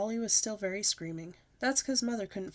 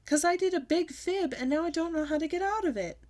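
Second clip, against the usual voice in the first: shouting; 9 semitones higher, 4 dB louder than usual. A narrator's reading. Child pleading to mother.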